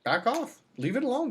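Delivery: voicing a cat's warning, high pitched; high mock cat voice.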